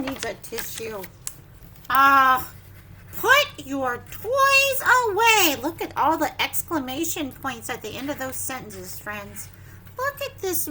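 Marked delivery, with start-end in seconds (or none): 1.9-5.6 loud, high, slow put your toys away; slow loud command; firm parent. Acted. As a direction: order the child to tidy up. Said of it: "parent's line from the book".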